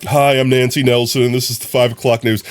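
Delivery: polished news anchor sign-on; Nancy Nelson. Shown as a demonstration. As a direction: put on an evening newscaster's presenting voice. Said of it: "pretty much like that".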